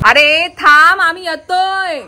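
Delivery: high, drawn-out call ahead. Real, not acted. Vlogger to those walking ahead, calling out. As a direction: call after them to wait.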